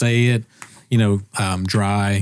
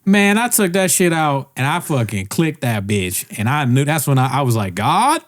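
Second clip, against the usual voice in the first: put-on Southern black accent, swooping high at the end; mock black accent; 3 semitones higher than usual. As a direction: retell it in a hammed-up Southern accent. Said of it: "speak in black accent".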